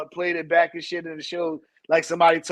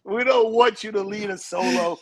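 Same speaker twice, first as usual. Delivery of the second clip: stiff robotic chant. Pretend. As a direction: recite it like a robot. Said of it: "You talk like a robot".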